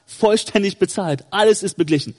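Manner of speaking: firm declaration to the accuser; entschiedene Entgegnung. Acted. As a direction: state it as a settled fact. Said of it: "dann holst du die Rechnung raus und sagst". (bestimmt, mit fester Stimme)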